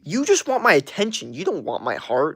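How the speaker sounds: high mocking sing-song start; mock the singer's smug line. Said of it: "He's like".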